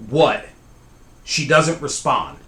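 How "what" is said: short, louder call; mild mock yell to another room; retold yell. Sleeper calling to the cousin a second time, moderate retold yell. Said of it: "I yell".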